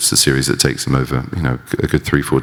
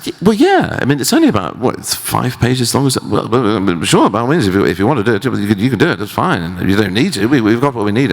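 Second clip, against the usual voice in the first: a deliberately bad Kiwi impression of the director, gently fobbing him off; bad Kiwi accent; 6 semitones higher than usual. Peter Jackson humouring his eager actor, bad Kiwi accent. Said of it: "I will attempt a bad Kiwi accent".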